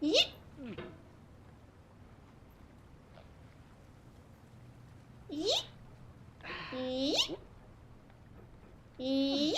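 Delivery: short squeak sweeping upward; quiet little yelp that flicks up at the end; playful yeet. Real, not acted. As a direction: slide up sharply through the vowel. Little calls during game moves.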